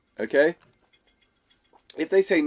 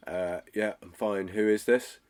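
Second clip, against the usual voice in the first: bored customer; 3 semitones lower, 5 dB quieter than usual. Shown as a demonstration.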